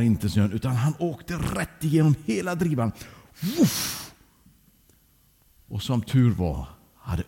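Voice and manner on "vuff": high whooshing "vuff"; imiterat fallljud. Acted. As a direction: make the sudden whoosh of falling through snow. Sound of falling through the drift. (högt susande fallljud)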